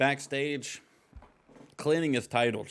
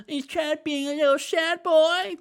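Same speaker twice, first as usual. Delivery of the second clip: higher mocking promo voice; Jim Cornette; 14 semitones higher, 6 dB louder than usual. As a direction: needle him like an old-school wrestling manager. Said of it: "What's Jim Cornette have to say?".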